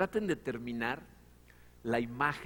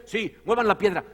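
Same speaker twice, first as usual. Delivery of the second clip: voicing Martha; 5 semitones higher, 10 dB louder than usual.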